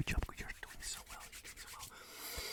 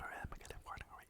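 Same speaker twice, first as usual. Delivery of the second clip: moving farther away; 7 dB quieter, faster than usual. Shown as a demonstration. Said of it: "whether I'm going farther away".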